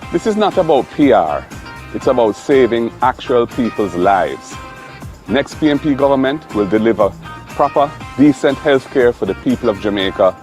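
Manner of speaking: loud, rousing campaign address; rally the crowd with fire; rally speech. Acted. Campaign speech over music.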